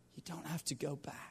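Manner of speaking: soft, unvoiced whisper.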